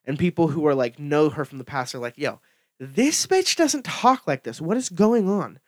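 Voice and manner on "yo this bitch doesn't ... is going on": baffled outburst. Retold or imitated. Voicing people who knew her from the past, baffled. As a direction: act out mild bewildered protest.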